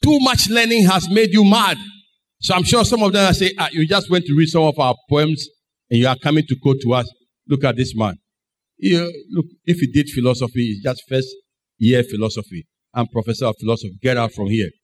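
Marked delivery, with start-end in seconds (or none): 0.0-1.8 raised-pitch mock accusation. Somebody mocks Paul for his learning, mocking. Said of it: "somebody mocked Paul". 3.6-14.7 low, offhand scorn; mocking. Philosophers mock Paul and send him away, mocking. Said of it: "So some mocked at him".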